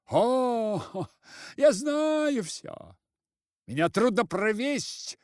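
very high, loud threatening cry; shrill threat. A narrator's reading. Sister-in-law threatening the head, very high angry cry. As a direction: shriek the warning at him.

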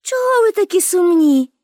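high, smiling, tender question; affectionate question. A narrator's reading. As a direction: ask small children kindly, voice lifted. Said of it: "ласкаво всміхнулася до хлопчиків і запитала".

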